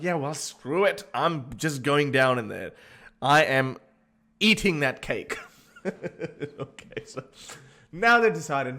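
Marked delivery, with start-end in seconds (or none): 0.0-5.4 louder, cocky boast about giving in; defiant husband. Retold or imitated. New husband deciding to break the rule, loud and cocky. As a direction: brag loudly with mock bravado. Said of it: "They're like".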